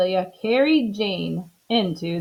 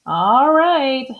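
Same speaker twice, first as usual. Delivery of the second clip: louder, agreeable reply; willing Amelia; 5 semitones higher, 6 dB louder than usual. Acted. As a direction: agree cheerfully. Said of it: "said Amelia Bedelia".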